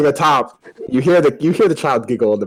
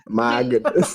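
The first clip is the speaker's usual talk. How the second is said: slow, underplayed imitation; mock unsurprised. Game master mimicking a player's reaction, mock unsurprised. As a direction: imitate a barely surprised exclamation, slowly. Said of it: "he wasn't even surprised".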